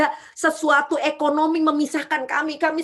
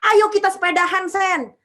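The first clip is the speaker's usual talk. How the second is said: higher, louder, coaxing invitation; the general on the phone, higher and louder, coaxing; eager friend inviting; 5 semitones higher, 4 dB louder than usual. Retold or imitated. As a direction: coax her to come cycling. Police chief friend invites her cycling.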